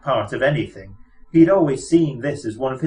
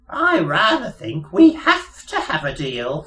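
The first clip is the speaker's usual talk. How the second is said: charm vanishing; 5 semitones higher, 3 dB louder than usual. Acted. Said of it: "all the charm vanishing".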